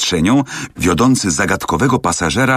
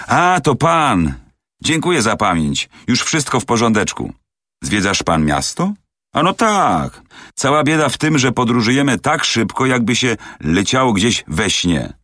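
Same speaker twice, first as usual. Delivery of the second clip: a little higher, eager talkative manservant; lightly voiced chatty servant; 5 semitones higher than usual. Servant greets the inspector, lightly voiced eager chatter. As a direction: chat away brightly like a servant abroad.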